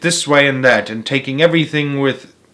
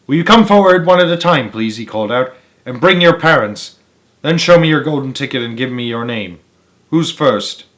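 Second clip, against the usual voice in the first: high fluty voice. Acted. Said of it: "His voice was high and fluty".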